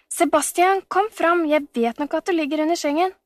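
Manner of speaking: high, insistent call, quickening. A narrator's reading. Camilla calling hidden Sebastian out from the bed, insistent.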